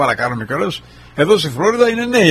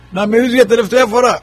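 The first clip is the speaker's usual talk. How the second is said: "να με δεις για τελευταία φορά" said much higher and louder, full strength; strong loud voice; 8 semitones higher, 5 dB louder than usual. Retold or imitated. Friend phoning from hospital, loud "να με δεις για τελευταία φορά". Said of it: "Με δυνατή φωνή".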